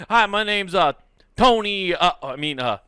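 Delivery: put-on high, loud mobster-style Italian accent introducing himself; fake Italian accent. New neighbor fumbles his fake name in a put-on Italian accent. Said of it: "with a fake Italian accent".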